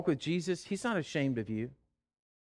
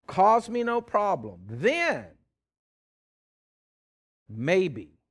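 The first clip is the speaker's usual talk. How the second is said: mock stern father, louder and dragged out; a hint of a harsh father; 5 dB louder than usual. Preacher mocking a father who scolds the returning son, hammed-up harsh. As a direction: play the unforgiving dad, slow and loud.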